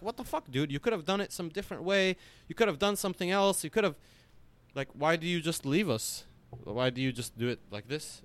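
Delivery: mock scolding crowd. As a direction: voice the crowd's indignant complaint. Crowd scolding star who left.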